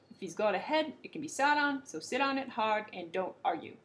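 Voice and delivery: loud bawling royal order; the king bellows at his servants; angry king. Acted. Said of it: "he bawled".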